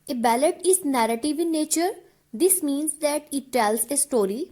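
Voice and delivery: slow, even dictation pace; teacher dictating notes, word by word; dictation reading. Acted. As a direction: read the definition out slowly so students can write it down. Reads definition slowly for notes.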